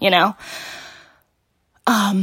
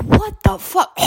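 shocked yell; 13 semitones higher than usual. Retold or imitated. Whole family reacting.

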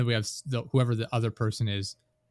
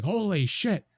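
shocked reaction; 10 semitones higher, 3 dB louder than usual. Retold or imitated. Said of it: "He's, like, reacting to it".

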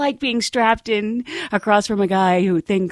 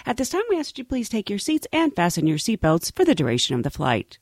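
flight attendant announcement; 2 semitones higher, faster than usual. Acted. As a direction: read it like an airline announcement. Cabin announcement parody.

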